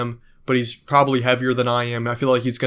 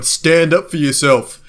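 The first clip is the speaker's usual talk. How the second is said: louder, slow firm command; mock corner coach; 3 semitones higher, 6 dB louder, slower than usual. Volk shouting advice to Kyrgios from the corner, slow loud command. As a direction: bark it like a fight coach in the corner. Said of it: "he just needs Volk in his corner going".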